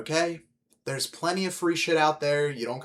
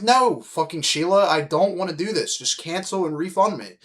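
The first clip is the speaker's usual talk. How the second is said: retold exasperated refusal; 5 semitones higher than usual.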